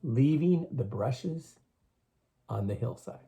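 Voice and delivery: slow, leaning on leaving; emphatic repeat. Shown as a demonstration. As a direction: repeat it slowly so it sticks. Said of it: "Now remember that".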